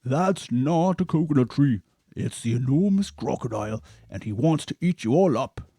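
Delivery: loud warning in a big hippo voice; Humpy Rumpy warning Mary loudly; urgent shout. A narrator's reading. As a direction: yell to save Mary. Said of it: "shouted Humpy Rumpy".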